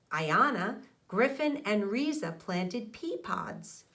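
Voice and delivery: put-on steady storybook read-aloud for young listeners; reading to children. A narrator's reading. Teacher reading a garden story to her class, storybook narration.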